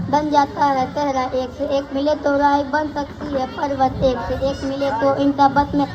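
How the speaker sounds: even, rhythmic school recital; verse recitation. Acted. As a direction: recite in steady metre with little pitch movement. Recites song verses as poem. (लयबद्ध कविता पाठ)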